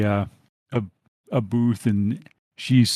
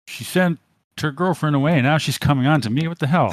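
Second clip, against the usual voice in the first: high, mocking jeer; jeering thug; 5 semitones higher, faster than usual. Thug mocking her to his friend, high jeer. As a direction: sneer it to your buddy.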